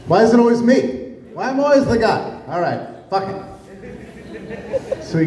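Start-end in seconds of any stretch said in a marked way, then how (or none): 0.1-3.4 higher, exasperated whine, then a resigned mutter; frustrated Fauci. Retold or imitated. Fauci, annoyed at Birx, whines that it's always him. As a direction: play a fed-up man stuck with the job again. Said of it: "Fauci's frustrated with her".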